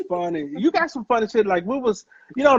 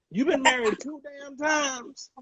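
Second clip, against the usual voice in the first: surprised; 6 semitones higher, 6 dB quieter, slower than usual. Real, not acted. Shocked at two marriages.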